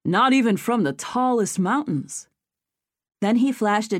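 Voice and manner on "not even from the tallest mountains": mock horror. A narrator's reading. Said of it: "exaggeratedly horrified".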